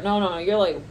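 ordinary talk

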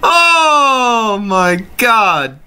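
very high cracking disbelief; shocked laughing. Real, not acted. Vlogger shocked by the next meme, squeaking with laughter.

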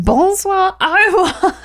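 high singsong French goodbye; retold French farewell. Customer parroting French goodbyes to tailor, mock singsong. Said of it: "I was like".

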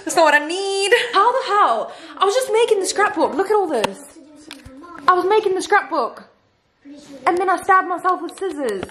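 high, tearful and half-laughing; real shaken giggly tears; teary laughing. Real, not acted. Telling viewers how she cut herself, real teary laughter. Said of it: "I'm here crying".

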